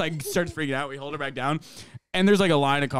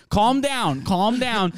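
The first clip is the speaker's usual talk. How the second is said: raised-pitch, imitated plea to settle; urging calm; 5 semitones higher, much slower than usual. Coworker to girl held on the ground, urging calm. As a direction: act out a coworker calming someone.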